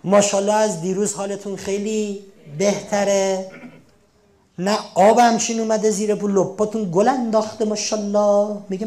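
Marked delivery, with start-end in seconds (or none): 4.6-8.6 bright, louder praise of the patient; cheery compliment. Acted. To a recovering patient, beaming compliments. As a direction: gush over how well they look.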